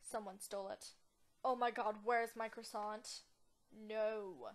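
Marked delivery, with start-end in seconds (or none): 1.4-3.2 loud, dismayed outburst; mock alarm. First take, croissant stolen in game. 3.9-4.5 a contained, dismayed no; mock dismay. First, milder take of the cry.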